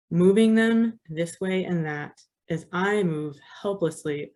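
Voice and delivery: measured poetry recital with pauses between lines; poem reading. Acted. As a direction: recite it deliberately, phrase by phrase. Reads own poem aloud.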